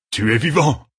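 high, amazed outburst; exclaimed cry. A narrator's reading. General finds his king alive, high amazed cry. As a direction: exclaim high, overcome with joy. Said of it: "s'écria Ituralde".

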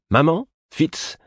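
high shouted call from afar; children's cries. A narrator's reading. Children calling for their mother and Fitz, shouting. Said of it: "les cris de".

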